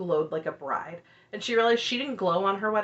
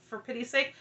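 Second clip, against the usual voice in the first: usual speaking voice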